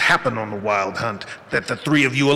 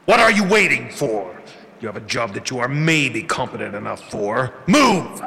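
angry command. Acted. Villain orders servant.

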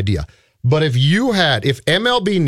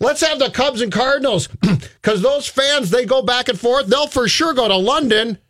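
mock executive voice; 9 semitones higher than usual. Continuing mock exec pitch.

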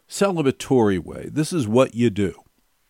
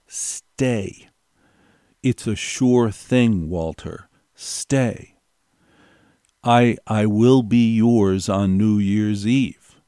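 coaxing; slower than usual. Retold or imitated. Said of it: "hinted and coaxed".

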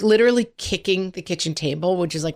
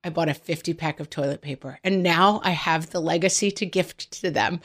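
aunt, softly; 4 dB quieter than usual. Retold or imitated. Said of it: "she's like".

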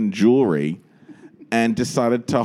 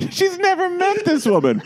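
incredulous aside. Retold or imitated. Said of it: "And you're like".

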